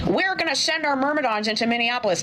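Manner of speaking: mock old grandmother voice; elderly grandmother voice. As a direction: talk like a granny without her hearing aids. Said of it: "his elderly grandmother voice".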